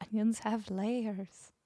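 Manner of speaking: slow, soft try at an ogre; hushed, drawn-out mock ogre; attempted ogre voice. Streamer returning to the onion joke, lightly attempted ogre voice. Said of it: "I cannot do a Scottish ogre accent".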